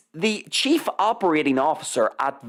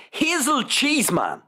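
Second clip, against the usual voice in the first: incredulous; 5 semitones higher than usual. Real, not acted. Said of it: "you can't make this up".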